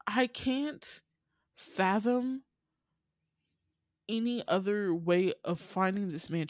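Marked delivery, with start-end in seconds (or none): 0.1-2.4 exasperated whisper. Real, not acted. Sighing in disbelief.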